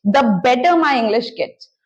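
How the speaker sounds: very slow, each word set apart for learners; slow model sentence. Shown as a demonstration. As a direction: spell it out slowly like a teacher giving the example. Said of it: "तो आप बोलेंगे". (धीमे-धीमे, साफ़ बोलकर उदाहरण वाक्य)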